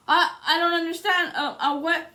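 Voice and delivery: hammed-up confused clerk; mock stammer. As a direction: imitate someone caught and floundering.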